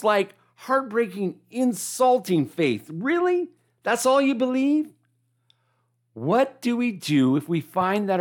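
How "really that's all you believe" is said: disappointed. Retold or imitated. Disappointed Jesus at weak faith.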